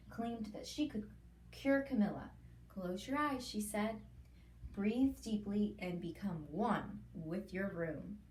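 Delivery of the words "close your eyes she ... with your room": slow, soothing therapist. Acted. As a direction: lull him like a calm therapist. Therapist voiced in story.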